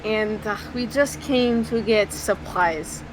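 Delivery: measured, careful delivery with slight put-on accent; Slava. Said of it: "clears his throat and is like".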